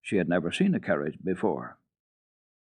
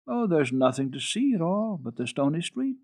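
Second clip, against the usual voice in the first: mournful; 7 semitones higher than usual. Acted. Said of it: "said the child mournfully".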